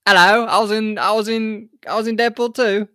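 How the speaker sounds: put-on a clumsy stab at an Australian accent; bad Australian accent. Host mocking the actor with a bad Australian accent. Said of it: "that's a terrible Australian accent".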